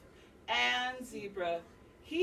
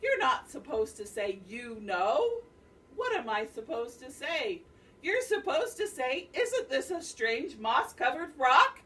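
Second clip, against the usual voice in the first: exasperated spider; 4 semitones higher, 7 dB louder than usual. Acted. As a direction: spell it out in fury. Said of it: "Ananasi shouted".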